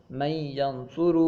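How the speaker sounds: "من ینظر" with the noon melted into a held ya; merged noon (idgham). Shown as a demonstration. Teacher names idgham for students, "من ینظر" with merged noon. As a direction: recite "من ینظر" slowly, running noon into ya. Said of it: "یہ ہے ادغام".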